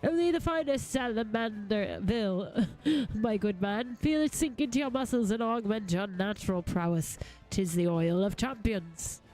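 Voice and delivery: lightly voiced proud gentleman; mildly hammed-up gentleman's sales patter; grandiose game character. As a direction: pitch a wondrous oil with theatrical pride. Reads game salesman's grand pitch.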